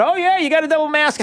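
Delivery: high sarcastic mock official; hammed-up sudden reversal; mock CDC voice. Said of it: "the CDC going".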